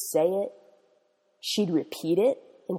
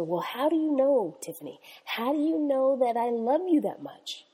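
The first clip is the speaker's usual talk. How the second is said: amazed; 5 semitones higher than usual. Retold or imitated. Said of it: "Amazed that she was so wrapped up".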